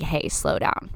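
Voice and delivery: soft unvoiced hush; whisper. The universe quietly telling you to slow down, whispered. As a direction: breathe it like a gentle warning.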